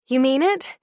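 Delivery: high hopeful question; can't quite believe it; breathless disbelief. Acted.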